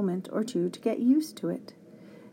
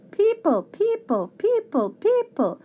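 shrieky high repeated alarm call; very high, loud squawks; screaming creatures; 12 semitones higher, 5 dB louder than usual. A narrator's reading. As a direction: screech each word like a flock of creatures. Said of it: "they were screaming".

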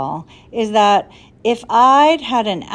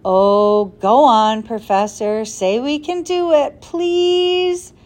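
urging; 2 semitones higher, 4 dB louder, slower than usual. Acted. Tom coaxing the professor to agree, loud pleading. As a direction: wheedle the professor into saying yes. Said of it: "urged Tom".

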